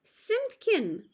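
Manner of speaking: calling out. Acted. Tailor calls out to his cat Simpkin, high and loud. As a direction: call the name high and loud across the room.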